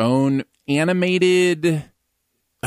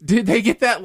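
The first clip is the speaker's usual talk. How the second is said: incredulous; 2 semitones higher than usual. Retold or imitated. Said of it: "I'm like".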